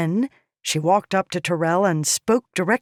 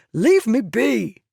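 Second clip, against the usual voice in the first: higher, louder, slow spat words; spat dismissal; 7 semitones higher, 5 dB louder, slower than usual. A narrator's reading. Tyrell spits at the slave girl to leave. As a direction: spit it out in contempt. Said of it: "the man spat".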